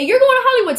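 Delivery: high-pitched imitation of a judge's big news; excited announcement.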